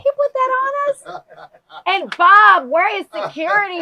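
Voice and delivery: alarmed. Real, not acted. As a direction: cry out for security, alarmed. Panicked host calls security.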